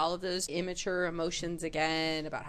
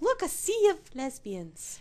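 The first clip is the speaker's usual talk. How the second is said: higher, slower awed voice; awed wonder; 8 semitones higher than usual. Pretend. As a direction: gaze in wonder. Voicing awed older woman.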